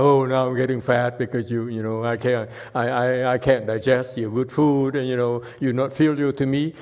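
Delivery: whining. Retold or imitated. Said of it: "he's whining about".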